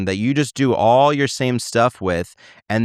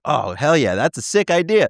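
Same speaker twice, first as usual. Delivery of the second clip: hyped up; 6 semitones higher than usual. Retold or imitated. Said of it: "And you're like".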